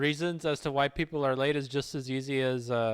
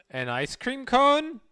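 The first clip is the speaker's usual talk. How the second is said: puzzled; 8 semitones higher, slower than usual. Real, not acted. Puzzled guess at a suggestion.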